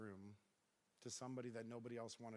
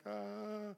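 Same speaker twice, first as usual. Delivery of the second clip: nervous cry; 8 semitones higher, 4 dB louder than usual. Retold or imitated. Biker blocks him at light.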